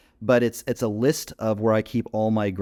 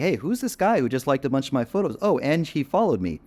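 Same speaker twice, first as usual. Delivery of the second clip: imitating a curious girl, higher pitch; 4 semitones higher than usual. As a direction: lightly voice someone intrigued by a new follower. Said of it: "She's gonna be curious".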